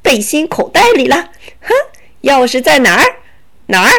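sly bandit voice, smug and teasing; smug robber. Acted. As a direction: gloat over the hidden key. Robber taunts about the key. (强盗得意洋洋地嘲弄)

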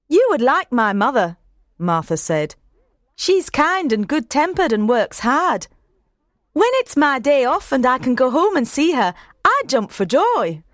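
a maid glowing about her mother; maid Martha. A narrator's reading. Narrator holds Martha's voice.

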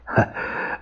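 a short, soft, forced chuckle; forced laugh. A narrator's reading. Governor covers his unease with a soft forced chuckle. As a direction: push out a polite laugh you don't feel. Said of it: "他强笑着说".

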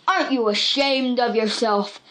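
a touch of scolding anger; understated anger. A narrator's reading. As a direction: scold her, mildly cross. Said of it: "Buck was really angry".

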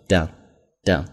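"done" said short and punchy, a quick clipped vowel. Shown as a demonstration. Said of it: "就很短促有力". (短促有力地读"done")

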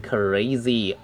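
CRAZY with a drawn-out "ay"; long A. Shown as a demonstration. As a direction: stretch the A in CRAZY. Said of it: "那个A是长音". (CRAZY 的A读成长音)

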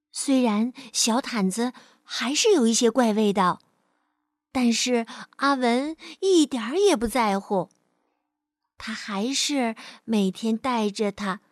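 measured, expressive storyteller voice; children's story narration. Acted. Teacher reads a picture-book story to children, storytelling. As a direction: tell it to a small child.

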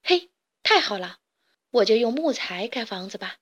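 a touch of cheer; lightly pleased little pig; mildly delighted find; happy. Acted. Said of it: "他开心地说".

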